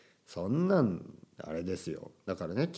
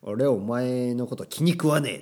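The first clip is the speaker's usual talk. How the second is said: a touch louder gangster growl; yakuza tough talk; 2 semitones higher, 5 dB louder than usual. Pretend. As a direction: threaten like a yakuza thug. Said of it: "ヤクザみたいなね、喋り方ね".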